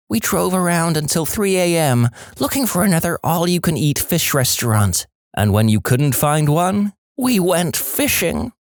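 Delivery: high Marge voice, slowing at the end; Marge Simpson impression. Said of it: "my Marge Simpson impression".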